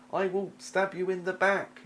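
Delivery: high, slow sneaky rogue threat; sly rogue promising a backstab. Acted. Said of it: "in a rogue voice".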